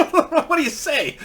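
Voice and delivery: high, squeezed-out words through laughter; laughing question. Retold or imitated. Guide asks after dad spoke to daughter, laughing. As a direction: crack up while asking.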